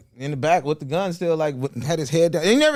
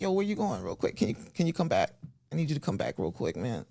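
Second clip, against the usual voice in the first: Mike Tyson; 7 dB quieter than usual. Retold or imitated. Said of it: "one of my favorite ones doing".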